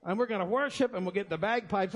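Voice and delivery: a lightly put-on Scottish accent, the pastor hamming it up; mock Scottish accent. Pastor jokes he'd fill the church with a Scottish accent. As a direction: try a Scottish brogue on a church welcome, only half pulling it off. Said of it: "I can't pull it off long enough".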